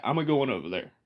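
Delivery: "a-going" with an extra "uh" before going; country "a-going", the "a" run onto "I'm"; Appalachian a-going. Shown as a demonstration. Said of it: "That's how they say it".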